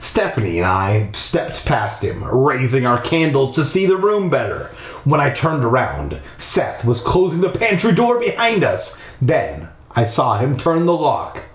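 measured storytelling read; story narration. A narrator's reading. Narrator leading listeners through a creepy house, storytelling voice. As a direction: read it out with deliberate pacing.

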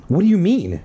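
high shrill cry; shrill girl voice. A narrator's reading. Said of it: "she cried shrilly".

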